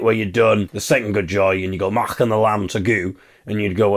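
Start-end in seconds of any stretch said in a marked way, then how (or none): 1.9-3.1 put-on broad Scottish vowels; mock Scottish accent on the lyric. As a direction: say it like a broad Scot. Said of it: "in a Scottish accent".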